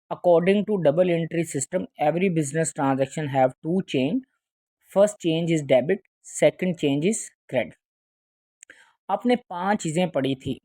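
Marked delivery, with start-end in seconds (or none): 0.1-7.8 very slow, word-by-word dictation; slow English dictation to class. Shown as a demonstration. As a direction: read it out slowly so students can write. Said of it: "teacher dictates English definition".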